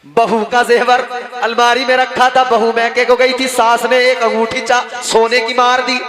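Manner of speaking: loud, ringing sermon storytelling; full-voiced preacher narration; preaching. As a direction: preach the tale out to the crowd.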